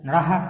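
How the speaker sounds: নরহা with the final h pulled long; slow, teacherly নরহা with aspirated ending; drawn-out visarga. Shown as a demonstration. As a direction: stretch the হা at the end of নরহা. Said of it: "হকে টানবো একটু".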